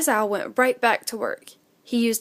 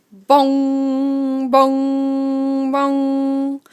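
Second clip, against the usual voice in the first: long, steady, louder bongs; clock chime; 2 semitones higher, 3 dB louder, much slower than usual. A narrator's reading. Narrator tolls the hall clock at midnight. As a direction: toll it like a grandfather clock. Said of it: "clock ... chimed twelve".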